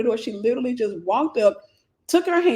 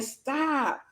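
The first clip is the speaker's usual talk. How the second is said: higher, rising plea to stop; mild retold plea, higher; pleading stop; 4 semitones higher, much slower than usual. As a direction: beg him to stop, climbing higher each time. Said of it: "I'm saying".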